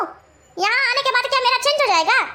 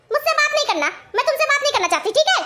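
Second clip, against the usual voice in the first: higher-pitched huffy refusal; sulky anger; 4 semitones higher than usual. Acted. Offended wife refusing to talk to husband, sulky anger. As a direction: cut him off in a miffed, raised pitch. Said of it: "क्यों इतना गुस्सा हो रही हो".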